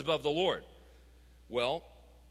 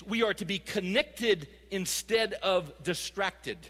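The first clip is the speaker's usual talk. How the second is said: slow, deliberate emphasis; 2 semitones higher, slower than usual. Shown as a demonstration. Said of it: "catch this".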